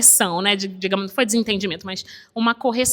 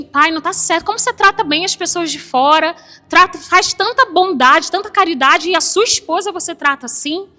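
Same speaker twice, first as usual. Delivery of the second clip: firm reproach; 4 semitones higher, 3 dB louder than usual. Retold or imitated. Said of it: "E eu fui bem dura com ele".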